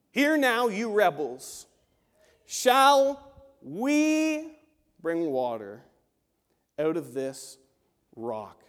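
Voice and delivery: a harsh, scolding rebuke with a rise on "Shall"; preacher playing Moses scolding the rebels; angry Moses. Preacher voicing Moses scolding the grumbling Israelites, hammed-up anger. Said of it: "Moses is angry".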